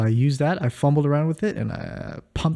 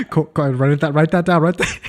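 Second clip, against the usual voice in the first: teasing laugh; 3 semitones higher, 7 dB louder than usual. Real, not acted. Teasing, louder.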